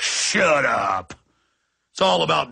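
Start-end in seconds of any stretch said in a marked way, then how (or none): 0.0-1.1 low, curt mock yell; mock cop bark. Cop silencing the crying family, in a low barked mock shout. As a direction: snap it like a thuggish cop. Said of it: "and the cop's like".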